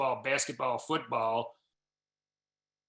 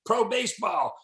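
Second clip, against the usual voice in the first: put-on mildly excited kid, a bit higher; excited buddy; 5 semitones higher than usual. School buddy telling Bobby about the new coach, mildly excited. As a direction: lightly play the eager eight-year-old friend. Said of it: "He's all excited".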